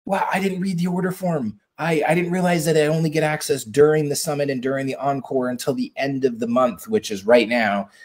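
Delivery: high, soft, half-panicked imitation; mock freaking out. Host imitating panicked customers, in a high, soft, mock-flustered voice. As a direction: play the flustered buyer who never read the form. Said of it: "legitimately freaking out and just being like".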